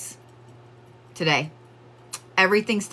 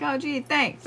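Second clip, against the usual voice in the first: sarcastic thanks; 9 semitones higher, 3 dB quieter than usual. Retold or imitated. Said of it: "I'm like".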